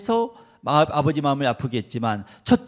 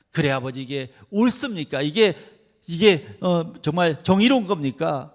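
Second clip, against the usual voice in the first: indignant son; 2 semitones higher, 4 dB louder than usual. Acted. Son confronting father.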